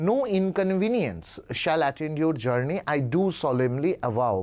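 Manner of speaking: put-on slow, formal read of an old-fashioned letter; slow, careful reading of a formal letter; reading aloud. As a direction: stretch out each phrase for students.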